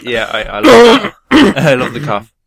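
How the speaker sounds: high, slow gleeful yes; delighted squeal. Real, not acted. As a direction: gush about it gleefully. Delighted about the cough trick.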